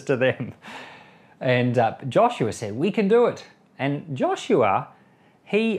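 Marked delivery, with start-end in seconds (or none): 2.7-3.5 confident cry. Retold or imitated. Joshua quoted confidently.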